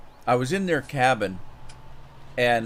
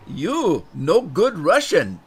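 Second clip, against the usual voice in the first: loud, higher imitation, drawn out; Russian drinker's verdict; 5 semitones higher, 6 dB louder, slower than usual. Storyteller mimicking a Russian scolding his failed drinking partner, loud mock verdict. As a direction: pronounce a mock verdict in broken English, loudly. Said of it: "and he says".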